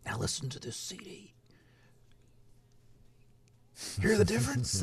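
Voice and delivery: hushed excited audiophile, rising to a high question; imitated excitement. Host imitating audiophile friend showing off records, breathy and excited. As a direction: mimic a friend's eager, half-whispered demo. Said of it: "he gets all excited".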